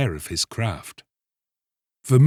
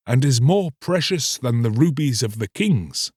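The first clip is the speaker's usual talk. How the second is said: raised, solemn rebuke; horrified priest; 5 semitones higher than usual. Acted. Priest rebukes the fisherman, raised and solemn. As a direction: warn him off sternly.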